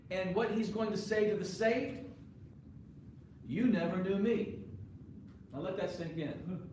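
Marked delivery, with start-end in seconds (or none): 3.5-4.6 You punched on a rising tune; stress on you. Acted. Preacher contrasting Jesus's words, with You stressed. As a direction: lean into You, not me.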